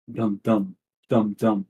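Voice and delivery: voiced drum beat in even pairs; steady drumbeat. Game master sounds the rowers' drum, steady beat. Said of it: "the same cadence".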